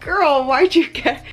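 sassy self-scolding. Retold or imitated. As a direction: tease yourself for overspending. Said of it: "I'm like".

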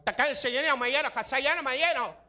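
high, far-off mock Spanish crooning. Ambassadors crooning in mock Spanish at Mexican dinners. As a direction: croon in a hammed-up Spanish accent. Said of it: "sat around Mexico going".

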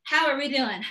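winded after cardio; breathless, catching her breath. Real, not acted. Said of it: "I'm out of breath".

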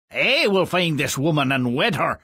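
fast mocking parody of the prince; mocking echo. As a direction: mimic the prince with a sneer. Old man mocks prince's vow.

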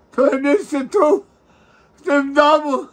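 high loud keening cry; wailing sob. Real, not acted. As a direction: let the sob break out fully. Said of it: "nie płacz mi przy mnie".

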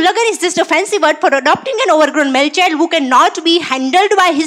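slow, deliberate English definition; slow English punchline. Acted. Defining marriage in English for an NRI friend, slow and deliberate. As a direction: spell out every word slowly for the NRI friend. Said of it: "ઇંગ્લિશમાં definition આપવું પડે".

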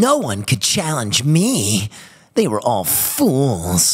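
smug anime rival, drawn out; anime boy voice. Shown as a demonstration. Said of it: "doing my anime voice all weekend".

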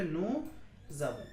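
নু জাভো with the s linked as z; French liaison. Shown as a demonstration. Teacher showing liaison to students, নু জাভো linked with z. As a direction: run নু into জাভো with a z sound. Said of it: "উচ্চারণ কি হয়ে যাবে?".

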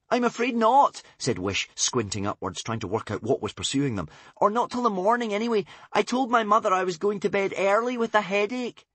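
rueful admission; lightly voiced young princess; Wish's voice. A narrator's reading. Wish voiced.

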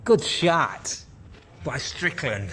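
lightly put-on American commentator accent. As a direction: try an American accent for the shot call. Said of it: "Does that sound American?".

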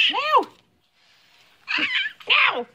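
high loud firm no; sharp no. Real, not acted. Mom stopping toddler grabbing the camera, loud high no.

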